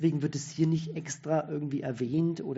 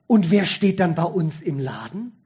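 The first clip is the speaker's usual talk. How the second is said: much louder, sudden indignant outcry; dying shopkeeper suddenly bolting upright in an alarmed outburst; 2 semitones higher, 9 dB louder than usual. A narrator's reading. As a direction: burst out with comic alarm. Dying man suddenly sits up.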